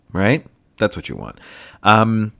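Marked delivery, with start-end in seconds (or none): 0.8-1.4 much lower, mock-serious repeat; deep comic voice. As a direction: drop into a low joking voice. Repeats line in a low voice.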